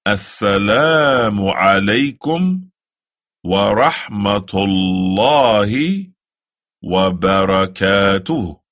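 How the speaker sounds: slow, careful Arabic greeting; the closing salaam, slow; slow recitation. Shown as a demonstration. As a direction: recite it slowly for the learner. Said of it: "some people say".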